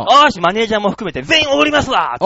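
rally everyone for a treat; cheerful shout. Retold or imitated. Narrator offering to treat the whole group, cheerful shout.

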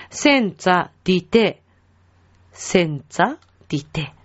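"センツァディテ" twice, split into two words; repeat-after-me model. Shown as a demonstration. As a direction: say "センツァ", small break, "ディテ" for learners. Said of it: "後についてきてくださいね".

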